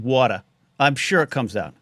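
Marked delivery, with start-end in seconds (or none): 0.0-0.4 Long Island water. Shown as a demonstration. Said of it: "you start saying".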